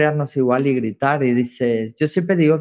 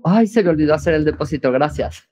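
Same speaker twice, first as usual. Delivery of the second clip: brisk, bright, grateful tone; cheerful thanks; 4 semitones higher, faster than usual. Shown as a demonstration. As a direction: say it quickly with a thankful lift. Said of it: "Ahora pongo". (agradecida y ligera, un poco más rápido)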